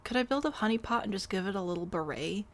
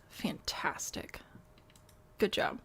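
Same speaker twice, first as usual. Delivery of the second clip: sarcastic whisper; slower than usual. Real, not acted. Sarcastic reply to chat.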